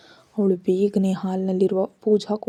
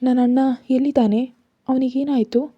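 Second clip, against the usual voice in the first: urgent, a bit higher and louder; anxious question; 3 semitones higher, 3 dB louder than usual. Acted. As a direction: ask in a rush of worry. Frightened sister asks about brother. (ಆತಂಕದಿಂದ ತುರ್ತಾಗಿ ಕೇಳುವುದು)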